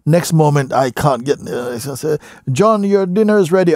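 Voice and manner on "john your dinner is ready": high calling-out voice; calling to dinner. Retold or imitated. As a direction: call out like a parent from the kitchen. Someone calling him to dinner.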